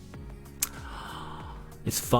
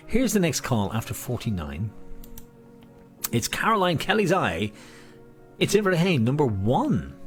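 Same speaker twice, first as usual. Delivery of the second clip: bingo caller; 3 semitones higher than usual. Acted. Bingo calling.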